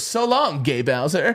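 chirpy plumber shout; Mario impression. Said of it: "I thought it was".

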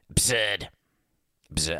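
fumbled Boston accent attempt; bad Boston accent. Host retrying his impression, clumsy Boston accent. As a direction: try out a Boston accent on one word. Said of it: "That's the worst Boston accent ever".

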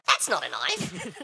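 slow movie quote. Acted. Crocodile Dundee knife quote parody.

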